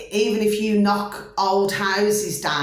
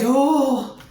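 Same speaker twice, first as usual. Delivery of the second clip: put-on boy's answer; 7 semitones higher, 6 dB louder than usual. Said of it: "He said".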